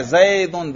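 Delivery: زیدن drawn out with an audible final "-un"; pronouncing the tanween. Shown as a demonstration. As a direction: sound out the "n" ending of زیدن. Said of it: "تنوین پر تلفظ کر رہا ہوں".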